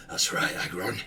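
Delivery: loud hooligan taunt; boisterous, cocky jeering; rowdy gloating backer. Acted. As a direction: crow in the loser's face. Rowdy backer gloats at beaten giant.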